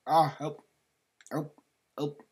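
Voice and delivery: high, loud pretend panic; mock cry for help. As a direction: play-act calling for rescue. Character in the game is drowning.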